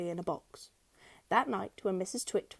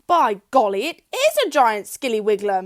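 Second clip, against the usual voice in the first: louder, alarmed gruff voice; gruff husband; 2 semitones higher, 12 dB louder than usual. A narrator's reading. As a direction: pile on the fright. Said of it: "Missus Twit said".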